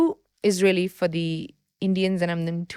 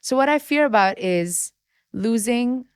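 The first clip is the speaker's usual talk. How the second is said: crying while talking; 2 semitones higher than usual. Real, not acted. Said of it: "I can't believe I'm crying".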